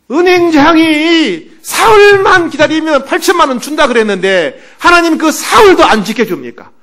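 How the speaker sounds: tearful complaint to God. Retold or imitated. Pastor resenting God after the bank failed, crying loudly. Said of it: "하나님은 막 원망하는 거예요".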